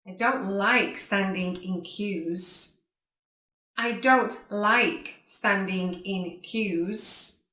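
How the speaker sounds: careful, spaced-out words with pauses between phrases; repeat-after-me model. Shown as a demonstration. Teacher saying sentences for students to repeat, carefully enunciated. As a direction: enunciate each word for learners to copy. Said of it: "like you to repeat after me".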